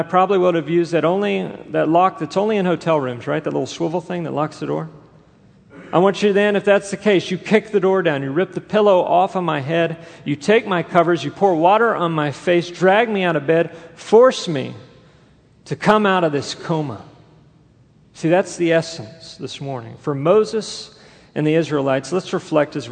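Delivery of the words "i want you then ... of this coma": louder, pressing list of demands; mock order to the front desk to drag me out of bed; insistent demand. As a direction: build the urgency line by line. Imagined wake-up demands, building.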